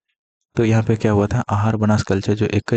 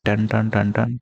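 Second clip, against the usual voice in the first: alarm tone imitation; slower than usual. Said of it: "alarm tone".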